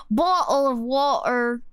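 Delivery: Southern vowels crossed with British; mixed Southern-British accent. Shown as a demonstration. Streamer trying a requested blend, Southern-British accent. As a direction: have another go at Southern British. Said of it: "Mixed Southern and British accent".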